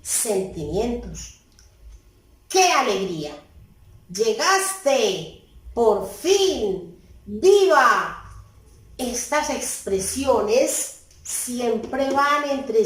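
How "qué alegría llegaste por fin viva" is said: a teacher's lively demo of joyful exclamations, building to a loud "¡Viva!". Shown as a demonstration. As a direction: call them out happily, as if someone finally arrived. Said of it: "me expresan emociones". (exclamaciones alegres de ejemplo, cada vez con más fuerza)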